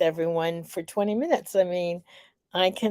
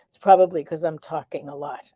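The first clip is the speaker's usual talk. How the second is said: out of breath; 3 semitones lower, faster than usual. Real, not acted. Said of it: "I'm a little out of breath".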